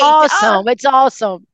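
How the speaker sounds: lightly put-on American accent. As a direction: gush it like an American kid. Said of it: "tudo com um sotaque americano".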